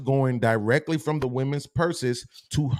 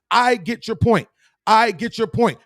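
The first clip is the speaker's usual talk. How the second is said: higher, firmer repeat; emphatic repeat; 5 semitones higher than usual. Shown as a demonstration. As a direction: hammer the point home. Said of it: "Watch this".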